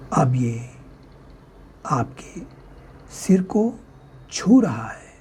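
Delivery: unhurried relaxation guidance; guided meditation. Acted. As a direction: guide listeners gently into relaxation, phrase by phrase. Leads a shield visualization.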